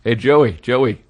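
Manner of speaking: low, slow stand-up bit voice; Carlin. Acted. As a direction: stretch it out like a veteran stand-up. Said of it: "How about this, Carlin?".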